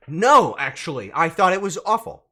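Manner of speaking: loud, emphatic protest; mock indignant outburst. Streamer answers whether the chicken was enjoyed, loud mock indignation. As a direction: burst out with an emphatic no.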